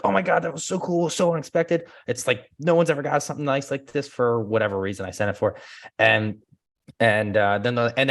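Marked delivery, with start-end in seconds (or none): 0.0-1.8 much higher gushing thanks; delighted client. Retold or imitated. Client thanking him for the gift, much higher delight. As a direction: gush over a surprise gift. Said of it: "So they were always like".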